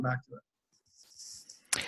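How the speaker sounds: talking with food in mouth; mouth full. Real, not acted. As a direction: say it through a mouthful. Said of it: "with your mouth full".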